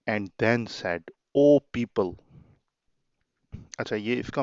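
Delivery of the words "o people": 1 proclaiming call. Shown as a demonstration. Teacher reading the Prophet's call.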